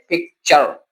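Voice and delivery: पिक्चर ending in a distinct "char". Shown as a demonstration. Teacher shows what T-U-R sounds like, "char" ending. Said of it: "sound देता है चर की".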